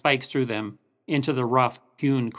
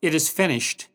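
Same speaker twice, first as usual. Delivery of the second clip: restrained, spent final words; Jesus's last strength. Retold or imitated. Jesus dying on the cross, subdued last words. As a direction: say it with the last ounce of strength, understated. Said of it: "With his last ounce of strength".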